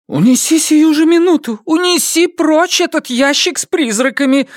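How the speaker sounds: high, loud panicked cry to take it away; mother yelling, high and loud; frantic shout. Acted. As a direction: shriek at her to get rid of it. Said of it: "замахала руками матушка".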